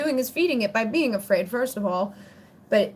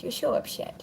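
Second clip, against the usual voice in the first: breathy whisper to the dog; 5 dB quieter than usual. Real, not acted. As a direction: hush it into a soft whisper. Soothing the upset dog.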